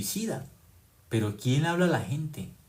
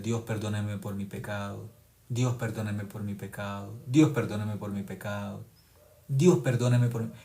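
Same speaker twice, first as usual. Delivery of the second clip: mock pleading sinner; 4 semitones lower, 4 dB quieter than usual. Imitating people begging forgiveness daily.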